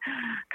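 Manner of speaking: short tense intake of breath; re-enacted gasp. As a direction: act out a nervous gasp. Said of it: "I remember breathing a bit".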